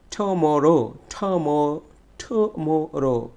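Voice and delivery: টুমরো with a long, strong "mo"; stretched second syllable. Shown as a demonstration. Teacher drilling students, stretched stressed "mo" in টুমরো. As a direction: stretch the middle of টুমরো, slowly. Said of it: "মরোতে আমাকে একটু বেশি".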